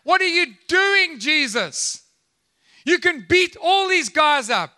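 high, urgent acted plea; Peter's protest. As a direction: challenge him in exasperated disbelief. Acts Peter protesting to Jesus.

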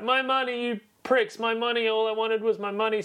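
high, whiny howl over lost money; mock villain wail.

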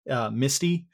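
ordinary talk

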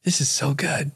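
blissed-out inner voice, lightly acted; calm relief. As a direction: let calm wash over the words. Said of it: "this just calmness just washed over".

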